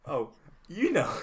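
posh 1930s crowd banter; old-timey newsreel voice. Acted. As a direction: play a jolly old-fashioned Englishman. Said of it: "our impression of the great song".

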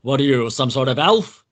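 lightly voiced mocking tycoon; a touch of a sneering cigar-chomping boss; mildly derisive question in a boss's voice; scoffing boss. A narrator's reading. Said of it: "B Z cackled as he shook".

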